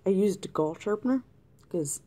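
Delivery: talking through hiccups. Real, not acted. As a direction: hiccup mid-sentence. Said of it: "I have the hiccups now".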